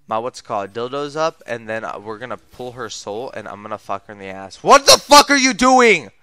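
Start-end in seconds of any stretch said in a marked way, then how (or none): 4.6-6.1 high, incredulous outburst; outraged. Real, not acted. Gamer at a play gone wrong, outraged. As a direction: raise the pitch in outrage.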